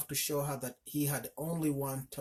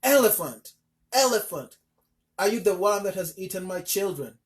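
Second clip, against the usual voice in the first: loud, higher screamed demand; screaming; 5 semitones higher, 9 dB louder than usual. A narrator's reading. Mother stamping and screaming at the elephant again. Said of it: "she screamed at him again".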